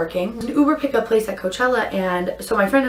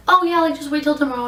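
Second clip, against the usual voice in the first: mock helpful agent; 6 semitones higher, faster than usual. Voices the triple A lady soothing.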